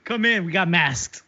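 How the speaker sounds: slow, oily come-on to lure customers in; sleazy salesman pitch. Pretend. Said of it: "you sound so sleazy right now".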